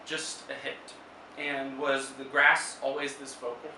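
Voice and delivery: measured poetry reading with long pauses; poem recital. Acted. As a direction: read it as verse, phrase by phrase. Reads own poem aloud.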